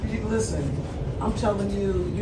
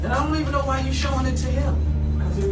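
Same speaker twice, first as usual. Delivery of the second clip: raised, heated protest; shrill anger; 5 semitones higher than usual. Real, not acted. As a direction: push back hard, voice up.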